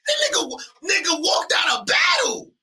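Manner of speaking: hearing the opponent walked out, shocked; shocked outburst. Real, not acted. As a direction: blurt it in shock. Reacting to walkout.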